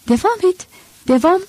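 high-pitched, choked urging, lightly acted; as if choking. A narrator's reading. Judas begs Jesus to go on, as if choking. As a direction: urge him on as if short of air. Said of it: "dedi Yahuda boğuluyormuş gibi".

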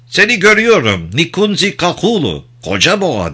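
ceremonious, polite salute; courteous greeting. A narrator's reading. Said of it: "diye selamladı onu nezaketle".

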